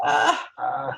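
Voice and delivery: low creaky "uh, uh" demo; placed vocal fry. Shown as a demonstration. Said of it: "on the top".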